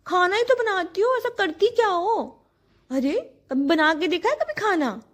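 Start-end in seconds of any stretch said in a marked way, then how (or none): 0.1-2.4 higher, slightly louder taunting quote; mock dismissive man. Wife imitates men belittling cooking, mock taunt. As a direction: toss it off like a dismissive husband. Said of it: "कितने ही आदमियों को सुना है".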